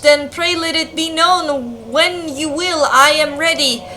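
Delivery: put-on theatrical old-world game dialogue; lightly performed olde-English lines; archaic dialogue read-out. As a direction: read it like a costumed village drama. Reads game dialogue aloud in character.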